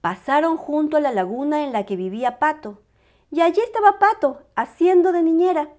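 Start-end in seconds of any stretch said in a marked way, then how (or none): 3.3-5.7 faster, higher, lively reading; lively storyteller. A narrator's reading. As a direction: perk up to show the duck. Narrator livens up.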